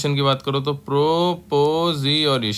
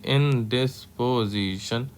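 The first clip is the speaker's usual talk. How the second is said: slow and soft; 4 dB quieter, much slower than usual. Shown as a demonstration. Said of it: "indisposition है तो N लगा देंगे".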